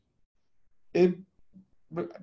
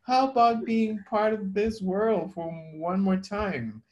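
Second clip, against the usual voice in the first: kind and slow; 3 semitones higher than usual. Retold or imitated. Husband coaxing the wife's broken computer: gentle, kind pleading. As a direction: sweet-talk a broken machine into working. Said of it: "I started to talk very slowly, kind".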